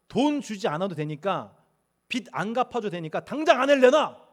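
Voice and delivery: loud furious demand; angry demand. Retold or imitated. Frantic husband yelling at the tycoon for his wife. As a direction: shout to get her back now.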